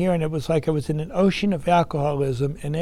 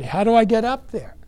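loud, higher, pleading shout; desperate call; 6 semitones higher, 8 dB louder than usual. Retold or imitated. Drowning man calling up to the boat, desperate. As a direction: call up from the water for help.

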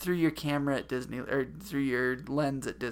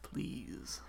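theme park ride spiel; 3 semitones lower, slower than usual. Retold or imitated. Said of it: "It says it in the pre-ride spiel".

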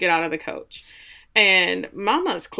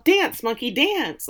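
mocking command; 5 semitones higher, slower than usual. Mocking men's demands on women.

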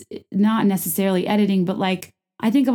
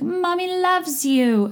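high, drawn-out cooing; Cameron and Dorit mommy voice; 11 semitones higher, much slower than usual. Retold or imitated. Owner calling to Tugboat all day, mock mommy voice. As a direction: stretch it out in hammed-up baby talk. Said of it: "I am just channeling Cameron and Dorit".

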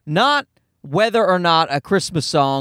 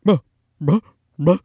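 imitated barking. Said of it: "this guy going".

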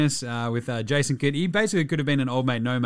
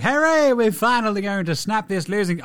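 mock cheer; 6 semitones higher, 4 dB louder than usual. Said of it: "it's like".

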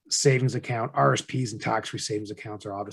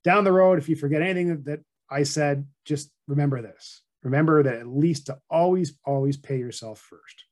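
presenter advice; 3 semitones higher than usual. Retold or imitated. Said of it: "So I'd always say".

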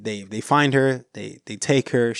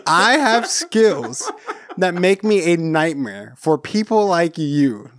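slow, drawn-out movie threat with amusement; full conviction; 4 semitones higher, slower than usual. Retold or imitated. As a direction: stretch the quote for emphatic certainty. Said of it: "with full conviction, just knowing that".

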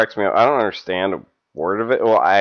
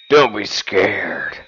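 seductive whisper. Acted. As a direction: whisper it like a come-on. Reading ad in seductive voice.

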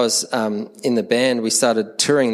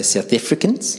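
playful hint of South African accent; 2 semitones higher than usual. Preacher teasing South Africans in the congregation, mock South African accent. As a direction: tease with South African vowels.

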